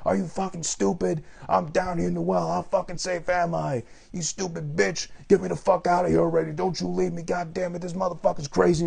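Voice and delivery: high, raging shriek from the pit; imitating a desperate captive cursing; mock screaming victim. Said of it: "the girl just screams at her".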